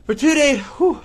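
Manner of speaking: puffing between words; winded, catching breath. Real, not acted. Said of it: "I'm out of breath".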